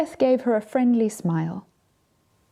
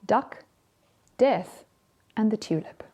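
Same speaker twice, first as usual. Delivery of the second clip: story title reading. A narrator's reading. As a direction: announce the book title.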